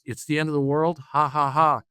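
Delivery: lightly mocking, with a spoken fake laugh. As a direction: make light of the disaster for the kids. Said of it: "in this very mocking kind of tone".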